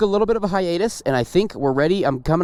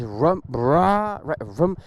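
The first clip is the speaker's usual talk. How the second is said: imitated engine revs; 2 semitones lower, much slower than usual. Shown as a demonstration. Rider rehearsing clutch timing aloud, engine imitation. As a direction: rev noises in rhythm. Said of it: "the sound was making the right noise".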